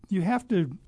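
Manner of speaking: burp breaking into the words; words caught on a burp. Real, not acted. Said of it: "excuse me, I'm burping".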